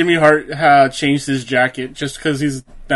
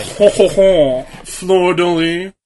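put-on slow, hammy French Canadian accent; slower than usual. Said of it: "say that in a French Canadian accent".

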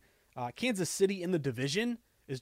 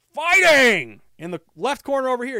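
ring announcer voice; 9 semitones higher, 13 dB louder than usual. Retold or imitated. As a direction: belt it out like a fight announcer. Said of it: "he says".

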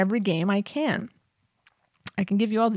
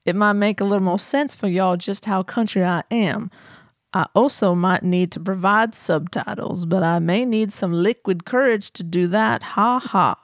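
put-on Doc Holliday country accent. Host reads a listener's email to co-hosts in a mild Southern accent. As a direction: read the email in a hammed-up Tennessee twang. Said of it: "This is my, my Doc Holliday".

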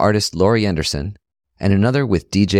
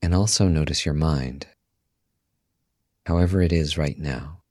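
guided meditation; 4 semitones lower, 6 dB quieter than usual. Acted. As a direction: guide listeners calmly into stillness, softly and unhurried.

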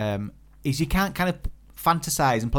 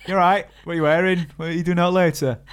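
chatty pharmacy texts; 5 semitones higher, 5 dB louder than usual. Retold or imitated.

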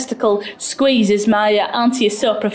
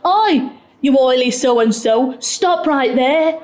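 stern lollipop woman; slower than usual. Retold or imitated. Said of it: "with her sternest lollipop woman voice".

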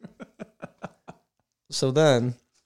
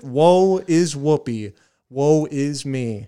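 dramatic sigh; 5 dB louder, slower than usual. Pretend. Mock lament over Whoopi's plight.

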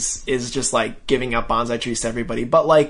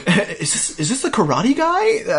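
amused excited question; 7 semitones higher than usual. Retold or imitated. Customer voiced, amused.

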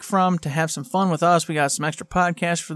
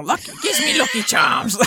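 mock Irish accent; 5 semitones higher than usual. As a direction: play the cereal-box Irish cliché. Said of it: "What's my Irish accent?".

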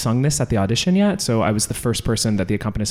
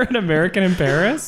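bad French accent; 5 semitones higher than usual. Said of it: "That was a horrible accent".

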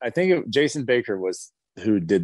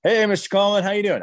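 higher, bright-voiced hello; mock cheerful greeting; 8 semitones higher, 3 dB louder, faster than usual. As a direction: play up a polite friendly hello. Retold lobby greeting exchange.

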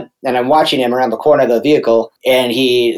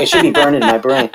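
laughing; 12 semitones higher than usual. Real, not acted. Laughing at traumatic memory.

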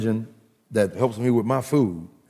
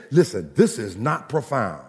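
normal talking voice

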